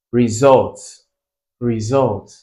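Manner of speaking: "result" with the SULT pushed; careful repeated "result", weight on its last syllable; stress on second syllable. Shown as a demonstration. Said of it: "results that have the stress on the second".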